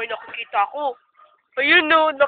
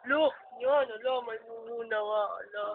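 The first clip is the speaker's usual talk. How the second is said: pretend spooked; 3 semitones lower, 9 dB quieter than usual. Pretending a ghost has appeared.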